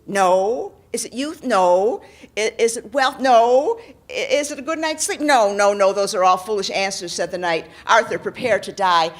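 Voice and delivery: loud, scornful rejections; angry knight. Acted. Knight character voice.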